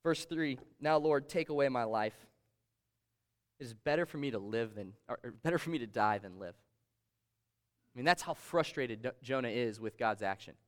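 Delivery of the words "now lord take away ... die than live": measured Bible reading voice; steady pulpit reading; scripture reading. Acted. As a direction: read the verse out to the congregation. Pastor reads Jonah's scripture aloud.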